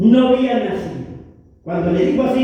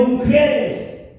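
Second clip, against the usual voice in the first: solemn Jesus; 4 semitones lower, slower than usual. Retold or imitated. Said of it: "Jesús le dijo".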